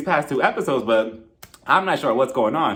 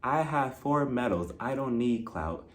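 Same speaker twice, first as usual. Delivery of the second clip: much softer, slow murmured run-through of lines; quiet rehearsal; 4 semitones lower, 9 dB quieter, slower than usual. Shown as a demonstration. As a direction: mouth the lines to yourself before the fight. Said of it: "I rehearsed my lines for this fight".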